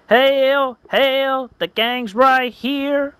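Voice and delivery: loud high hail, slow after; high glad cheer. Acted. Sanchu welcoming his friends, high and cheering. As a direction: cheer the cavalry arriving.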